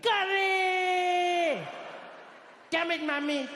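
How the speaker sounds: high wailing shriek; despairing scream. Retold or imitated. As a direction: howl it at the lunchbox. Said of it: "He'd be like".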